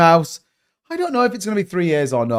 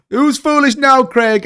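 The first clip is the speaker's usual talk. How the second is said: higher, louder teasing call-out; gloating taunt; 8 semitones higher, 3 dB louder, slower than usual. Real, not acted. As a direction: rub it in, playfully. Gloating shout-out to Craig.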